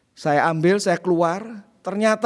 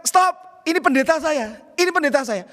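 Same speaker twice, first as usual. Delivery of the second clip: calling out stop; 6 semitones higher than usual. Retold or imitated. Retelling young men's shout.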